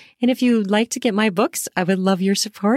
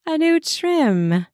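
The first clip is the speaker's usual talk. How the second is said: slow, deliberate promo read; sponsor ad read; slower than usual. Acted. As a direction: sell the product slowly, leaning on each word.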